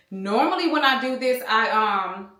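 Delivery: winded from the stairs; breathless, catching air between words; out of breath. Real, not acted. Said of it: "That's why I'm out of breath".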